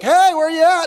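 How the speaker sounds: God calling into the garden. Retold or imitated. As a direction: call out searching. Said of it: "God's like".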